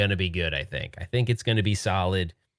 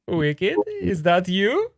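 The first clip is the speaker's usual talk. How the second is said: high, slow, delighted call; excited greeting; 11 semitones higher, 3 dB louder, much slower than usual. Real, not acted. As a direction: call out, thrilled he's here. Friend finally joins stream.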